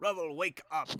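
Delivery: very loud bellowed shout. Voicing a character waking a man snoring in a chair: shouting. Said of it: "Crowan shouts".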